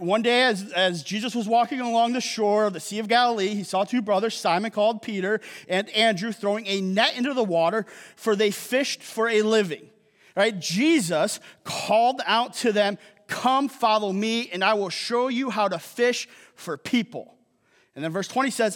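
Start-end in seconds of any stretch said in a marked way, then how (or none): 0.0-9.9 measured Bible reading to the congregation; scripture reading. A narrator's reading. Reads scripture aloud to congregation. 10.6-17.4 measured Bible reading to the congregation; scripture reading. A narrator's reading. Reads scripture aloud to congregation.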